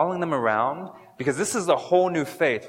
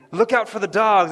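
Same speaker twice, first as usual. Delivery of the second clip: high, loud proclamation; much louder, higher cry; loud warning; 9 semitones higher, 7 dB louder than usual. Pretend. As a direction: call the warning out to the crowd. Reader proclaims letter aloud.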